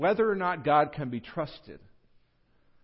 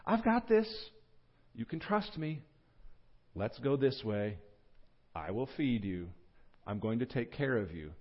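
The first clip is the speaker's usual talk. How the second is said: God; 4 dB quieter than usual. Acted. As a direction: soothe softly, phrase by phrase. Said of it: "It's God's way of saying".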